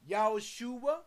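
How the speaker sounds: "Yahushua" spoken as four syllables; four-syllable pronunciation. Shown as a demonstration. Preacher teaching the name to listeners, "Yahushua" in four syllables. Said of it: "is four syllables".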